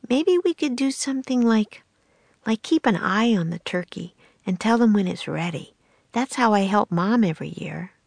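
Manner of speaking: a little sister offering an idea; young girl voice. Acted. Annie's voice, held.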